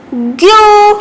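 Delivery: ग्यू with a long, held "oo"; syllable demo. Shown as a demonstration. Teacher adding the vowel sign to ज्ञ, ग्यू drawn out. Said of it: "ज्ञ पर लगेगी तो".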